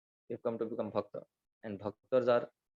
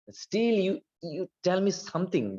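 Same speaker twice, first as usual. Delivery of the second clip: much higher, coaxing deity voice; insistent Narasimha; 7 semitones higher, slower than usual. Retold or imitated. Narasimha urging Prahlad to ask a boon, high coaxing. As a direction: press him to ask for something.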